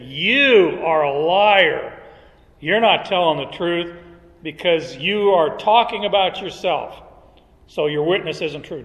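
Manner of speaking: accusing Pharisees. Retold or imitated. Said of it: "and they said".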